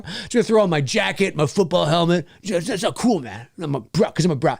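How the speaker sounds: lightly voiced jock, pitched a little down; mocking jock bro. Host mocking teens without costumes, mock jock bro. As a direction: imitate a too-cool bro with punched-out excuses. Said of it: "I'm a fucking jock. I'm a bro".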